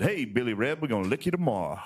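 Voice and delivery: mild mock yell in a Southern accent; Shelby Foote. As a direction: answer the taunt as an old Southern storyteller would. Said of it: "they yelled back".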